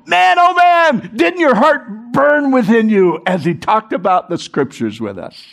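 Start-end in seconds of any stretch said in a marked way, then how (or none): 0.1-3.2 high, slow, awestruck exclamation; amazed disciples. Retold or imitated. Disciples turn to each other, amazed and excited. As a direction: marvel at it together. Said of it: "they look at each other and go".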